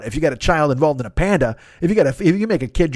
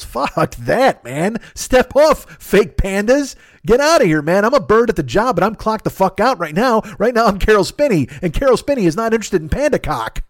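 higher, worked-up mock outrage; indignant refusal; 5 semitones higher than usual. Puppeteer telling fake pandas to back off, mock indignant. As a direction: push them off, pitched up and punchy.

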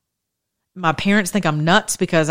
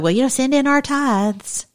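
higher, put-on voice of a greedy church; mock the pastor begging for tithes; 5 semitones higher than usual. Preacher mocking churches that still beg tithes, high mock voice. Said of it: "Some of your churches are still like".

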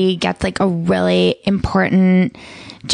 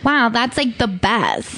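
deadpan mock praise; 3 semitones higher, slower than usual. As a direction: say it slow and bored. Mocking bland superlatives.

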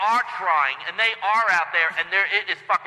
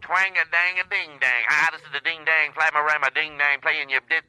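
lightly voiced JFK Boston twang with lower nonsense syllables; playful nonsense in a hint of JFK Boston accent; 6 semitones lower than usual. Shown as a demonstration. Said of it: "I gave it a J F K twang".

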